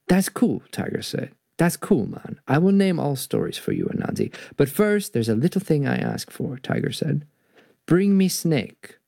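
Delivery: storybook narration with a Jamaican-tinged Tiger; story reading. A narrator's reading. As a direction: voice the tiger playfully.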